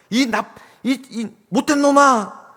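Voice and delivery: stumbling start into a high shout; boy struggling to get the curse out, then yelling; acted outburst of resentment. Son remembers the friend who hit him, shouting in resentment. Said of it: "울분이 터져 나와가지고 아이도 막".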